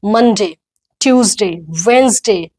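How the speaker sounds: "वेडनेसडे" as WENZ-day, each day distinct; good pronunciation. Shown as a demonstration. Teacher showing parents good pronunciation, "ट्यूसडे" as TYOOZ-day. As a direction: say "मंडे" as MUN-day, falling on each name. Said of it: "अच्छे pronunciation के साथ".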